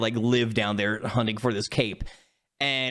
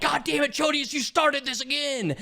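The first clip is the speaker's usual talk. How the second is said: mock exasperation; 12 semitones higher than usual. Players scolding Chodius mid-fight, mock exasperation.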